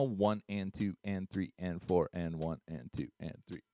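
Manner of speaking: steady spoken count on the beat; evenly counted one and two and; counting beats aloud. Shown as a demonstration. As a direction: count it out in time. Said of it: "it's counting to eight beats".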